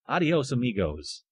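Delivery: rolled Spanish adios, amigos; Spanish accent. Pretend. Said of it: "Let's say it better".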